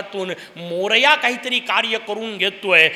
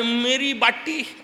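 drawn-out mock lament over the pot; mock wail; 3 semitones higher, much slower than usual. Gorakshanath wailing over his broken pot, hammed-up slow wail. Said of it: "जोराजोरात रडताय".

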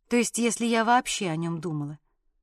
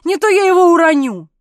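panicky cry; 6 semitones higher, 10 dB louder than usual. A narrator's reading. Panicked husband holding baby.

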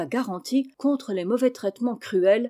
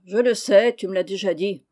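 irritated; 5 dB louder than usual. Acted. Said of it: "Olnick avec humeur".

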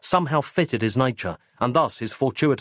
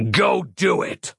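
barked order; 4 semitones higher, slower than usual. A narrator's reading. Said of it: "barked Rellington".

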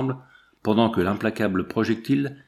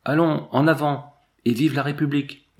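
higher, raised rallying shout; rallying cry; 4 semitones higher than usual. A narrator's reading. Sergeant urging the company forward, rallying shout. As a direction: cheer the men on with spirit. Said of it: "il criait".

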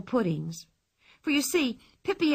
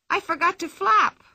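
high, louder gleeful cry; joyful; 9 semitones higher, 6 dB louder than usual. A narrator's reading. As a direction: say it with glee. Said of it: "she said joyfully".

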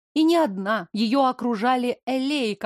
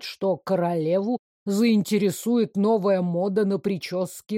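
lightly lowered male voice; 2 semitones lower than usual. Acted. Mayor mockingly questions his fiancée, lightly lowered amused voice. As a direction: tease her with mock seriousness.

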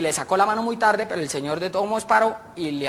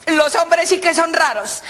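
high slow gossiping lady; 9 semitones higher, much slower than usual. Acted.

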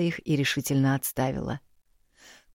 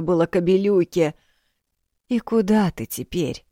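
a higher, scolding-kind grandmother; lively old village woman, louder; 5 semitones higher, 4 dB louder than usual. A narrator's reading. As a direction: bustle and comfort the girl loudly. Old woman cursing the husband.

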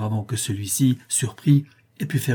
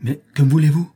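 louder, higher angry demand; growled challenge; 4 semitones higher, 6 dB louder than usual. A narrator's reading. Cornered murderer confronts the two intruders, angry raised voice. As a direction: challenge them, raising voice and pitch. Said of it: "gronda Limerick".

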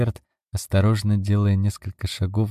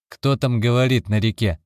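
feigned surprise; 3 semitones higher than usual. Acted. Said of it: "придав голосу удивлённую интонацию".

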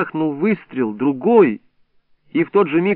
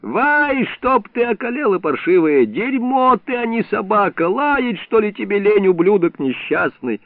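high, exasperated swearing at the dog; high-pitched furious cursing; desperate cursing; 8 semitones higher than usual. A narrator's reading. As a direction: curse the useless dog in despair. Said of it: "отчаянную ругань Иллариона".

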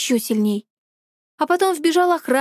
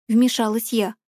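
plain reading voice

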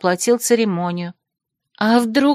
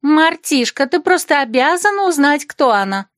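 put-on much higher, louder girls in unison; insistent chorus; 7 semitones higher, 4 dB louder than usual. Friends demand Martishka find the bride, eager and high. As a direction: press her eagerly together. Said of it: "и одновременно произнесли".

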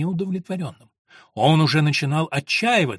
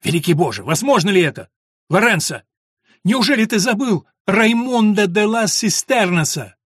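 astonished; 6 semitones higher, 6 dB louder than usual. A narrator's reading. Stunned recognition of old friend.

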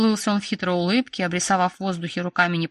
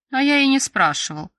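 higher and louder retort; raised voice; 6 semitones higher, 5 dB louder than usual. A narrator's reading. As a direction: raise your voice to overrule him. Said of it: "повысил он голос". (повысив голос)

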